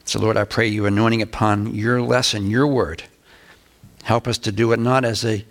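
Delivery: low, subdued praying voice; prayer. Real, not acted. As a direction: pray quietly and soberly before the lesson. Opening prayer before the lesson.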